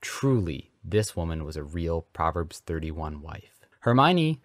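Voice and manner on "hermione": high, loud call; loud summons. A narrator's reading. Father summons his daughter to dinner, loudly. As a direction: call out to someone upstairs. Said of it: "the Reverend summoned loudly".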